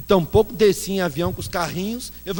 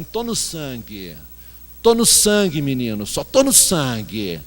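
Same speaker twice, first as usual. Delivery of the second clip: imitating Baby; 3 semitones lower, slower than usual. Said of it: "porque ela fala assim".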